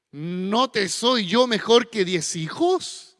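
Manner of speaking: slow, self-satisfied husband; puffed-up chest. Retold or imitated. Elcana boasts to Ana, slow and proud. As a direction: puff out the chest and ask slowly. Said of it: "se le infla el pecho".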